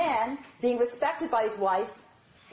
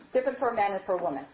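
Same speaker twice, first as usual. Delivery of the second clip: fast; faster than usual. Shown as a demonstration. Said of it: "Our three questions".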